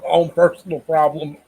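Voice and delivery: high, laughing echo of the phrase; laughing mockery. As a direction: repeat it through giggles, mocking. Mocking Jamie's line while laughing.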